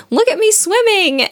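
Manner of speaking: high squeaky little Roo, bursting with glee; squeaking. A narrator's reading. Baby Roo shouting to everyone while swept downstream, squeaky. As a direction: squeak it out, thrilled to be swimming. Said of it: "he's squeaking".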